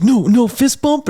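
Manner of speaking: high, loud and slow, a hammed-up brush-off; mock gruff refusal. Fighter mimicking his sore opponent refusing a fist bump, mock gruff. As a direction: snub the offered fist bump in a mocking voice.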